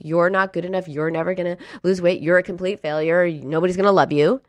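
demonstrating the inner critic, running down the list; critical you-voice. Shown as a demonstration. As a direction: rattle off mild self-accusations in one run. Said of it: "the you critical voice, the inner critic".

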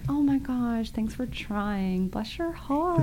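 soft, slow, sugary condescension; a soft, syrupy put-down; passive aggressive. Retold or imitated. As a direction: pat them on the head with your voice. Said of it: "condescending and, like, kind of passive aggressive".

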